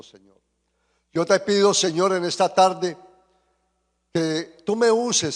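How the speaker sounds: fervent prayer, rising then settling; oración en público. Real, not acted. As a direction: pray aloud earnestly, addressing God. Leads the congregation in prayer. (oración ferviente ante la congregación)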